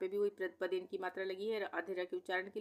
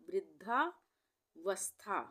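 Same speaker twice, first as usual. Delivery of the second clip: very slow; much slower than usual. Shown as a demonstration. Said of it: "teacher models word".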